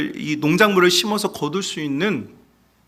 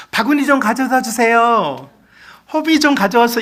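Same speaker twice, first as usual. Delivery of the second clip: louder and higher, called across the waves; shouted request; 5 semitones higher, 5 dB louder than usual. Shown as a demonstration. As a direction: shout it over crashing surf. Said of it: "이렇게 말하면 들려요, 안 들려요?".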